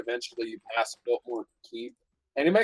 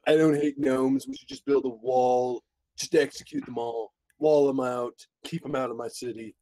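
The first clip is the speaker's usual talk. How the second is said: Trump impression. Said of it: "You sound more like a surfer dude than Trump".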